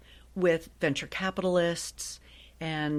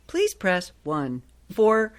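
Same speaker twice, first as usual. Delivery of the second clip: automated phone menu voice; 4 dB louder, slower than usual. Shown as a demonstration. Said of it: "the interactive voice response system".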